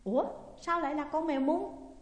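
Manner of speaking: baffled at finding the cat; surprised. A narrator's reading. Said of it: "ngạc nhiên". (ngạc nhiên sửng sốt)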